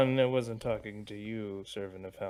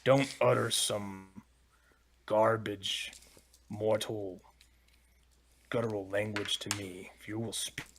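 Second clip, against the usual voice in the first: dragon yelling back; 3 dB louder than usual. Acted. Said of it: "I'll just yell back".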